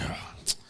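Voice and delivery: short, soft grunting sigh; mock an irritated huff under the breath; imitated grunt. Storyteller mimicking the pissed-off cop, grunting. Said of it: "grunting and shit like this".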